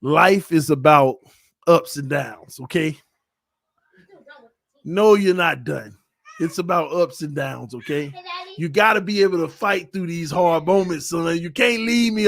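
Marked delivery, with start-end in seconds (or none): 0.0-10.3 fatherly advice. Real, not acted. Father counsels son seriously.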